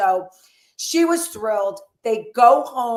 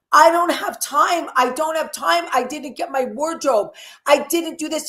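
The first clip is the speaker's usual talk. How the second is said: flustered panic; 5 semitones higher than usual. Retold or imitated. Paulie flustered before the proposal, panicked protest. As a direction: blurt it out in a rush of panic.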